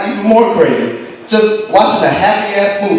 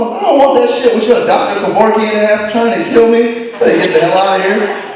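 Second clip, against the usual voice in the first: higher, laughing protest; mock outrage; 5 semitones higher than usual. Laughing refusal of the girlfriend's suspicious drink. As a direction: refuse the drink with comic alarm.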